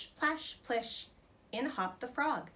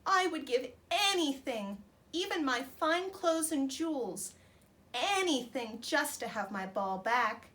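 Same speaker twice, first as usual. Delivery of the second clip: higher, louder, slow pleading wail; wailing princess; 5 semitones higher, 4 dB louder than usual. Acted. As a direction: beg tearfully for the lost ball. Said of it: "wailed the princess".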